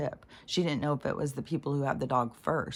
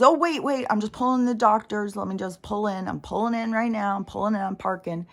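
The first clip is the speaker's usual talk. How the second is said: flustered driver; 5 semitones higher than usual. Retold or imitated. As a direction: play a caught driver scrambling for excuses. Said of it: "And the guy goes".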